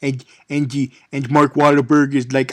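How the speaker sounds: ordinary talk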